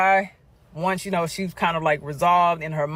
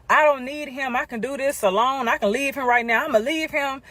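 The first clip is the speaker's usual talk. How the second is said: upset friend; 7 semitones higher than usual. Retold or imitated. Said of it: "She starts saying".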